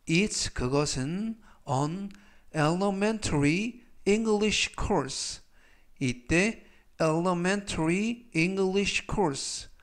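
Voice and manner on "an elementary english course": very slow, careful phrase for learners; slow model reading. Shown as a demonstration. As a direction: read it slowly so they can repeat. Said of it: "활용 문장 보시겠습니다". (천천히 또박또박 읽는 예문)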